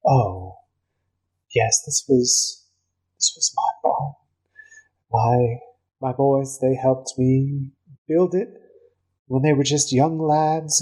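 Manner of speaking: a touch of fake grief; elf woman.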